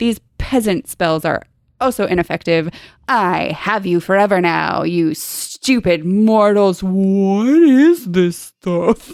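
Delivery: mock gloating, boasting villain voice. Acting out a book villain sure of his victory: imitating a gloating villain. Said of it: "He's like, "Ha ha, I am so strong."".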